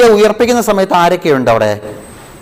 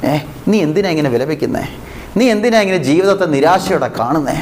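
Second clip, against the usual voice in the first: gentle Jesus voice; 5 dB quieter than usual. Acted. Preacher voices Jesus consoling suffering believers, soft and tender. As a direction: speak it like Jesus gently asking his child why they are crying. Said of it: "ഈശോ നമ്മളോട് മൗനമായി പറയുന്നുണ്ട്".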